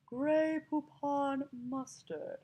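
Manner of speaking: haughty British drawl; British snob accent. Shown as a demonstration. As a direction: stretch it out in snooty British. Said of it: "as opposed to".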